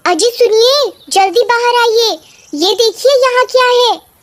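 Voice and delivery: high-pitched, urgent calling; high, excited cry to come and look; shouting wife. Acted. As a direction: call your husband outside in excitement. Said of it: "क्यों चिल्ला रही हो".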